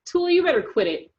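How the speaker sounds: high, loud yell. Acted. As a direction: call out to stop her. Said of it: "someone yelled".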